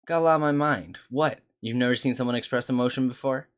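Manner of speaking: loud, snappy and exasperated; irritated yelling. Acted. Molly snapping at Echo in a loud, irritated voice. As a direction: snap back at the stranger in annoyance. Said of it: "why are you yelling?".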